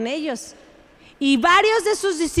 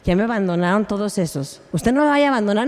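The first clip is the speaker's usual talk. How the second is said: a hammed-up clingy plea, pitched lower and rushed; mock pleading; 8 semitones lower, faster than usual. Preacher imitating Jesus begging one disciple, mock pleading. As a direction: beg each one not to go, half-joking. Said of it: "No fue de uno por uno a decirles".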